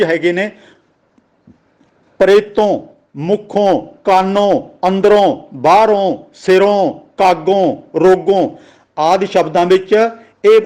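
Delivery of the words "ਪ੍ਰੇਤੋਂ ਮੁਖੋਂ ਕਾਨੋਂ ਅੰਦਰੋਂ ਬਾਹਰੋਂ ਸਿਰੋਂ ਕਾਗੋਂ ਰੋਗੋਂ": each of ਪ੍ਰੇਤੋਂ to ਰੋਗੋਂ ends in a long falling "on"; ਮੁਖੋਂ, ਕਾਨੋਂ, ਸਿਰੋਂ with a clear final "o"; aunkar as O. Shown as a demonstration. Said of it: "ਹੋੜੇ ਦੀ ਆਵਾਜ਼ ਦਿੰਦਾ ਹੈ". (ਪ੍ਰੇਤੋਂ, ਮੁਖੋਂ, ਰੋਗੋਂ ਦੇ ਅੰਤ ਵਿੱਚ ਹੋੜੇ ਦੀ ਆਵਾਜ਼)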